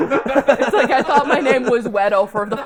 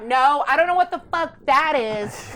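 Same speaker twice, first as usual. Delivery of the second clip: higher-pitched mock southern customer; southern accent; 5 semitones higher than usual. Southern customer rejecting the worker's pronunciation, mock indignant southern accent. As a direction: imitate an indignant southern woman. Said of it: "She had a southern accent".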